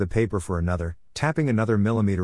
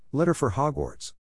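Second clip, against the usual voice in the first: shouted; 6 semitones higher than usual. A narrator's reading. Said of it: "shouted into the empty sky".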